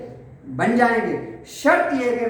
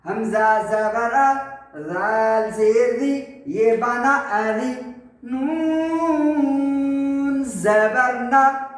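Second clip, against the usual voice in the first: slow chant with a long held نون; spelling drill recitation; much slower than usual. Shown as a demonstration. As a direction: spell it out letter by letter, then join.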